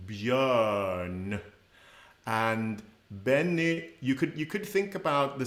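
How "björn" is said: Björn with open rounded ö, lips forward; Swedish Björn. Shown as a demonstration. Teacher modelling the ö sound, Swedish pronunciation. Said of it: "a nice open ö, using those lips forward".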